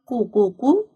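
"قو، قو، قو" as separate qoo beats; "قو" repeated as a sounded-out syllable; qaf with damma. Shown as a demonstration. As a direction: drill "قو" three times, evenly spaced. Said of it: "قاف ضمة".

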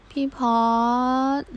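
whispering the name. Acted. Kao whispering his senior's name over the phone.

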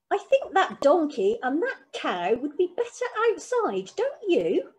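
sweetly commanding granny; an order dressed as a question; not really a question. Acted. Granny telling Joseph to move the animals, mildly commanding. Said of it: "the sort of voice which really wasn't a question at all".

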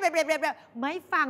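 ordinary talk

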